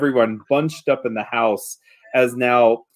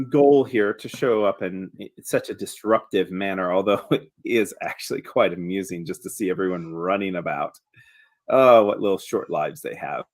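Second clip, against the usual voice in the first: lackadaisical, amused creature; 5 semitones lower, 3 dB quieter than usual. Acted.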